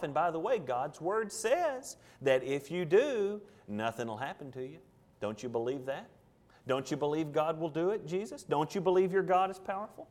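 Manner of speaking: soft, coaxing questions that rise at the end; quietly tempt, like a sly deceiver; sneaky, deceptive tempter. Acted. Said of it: "it's sneaky and it's deceptive".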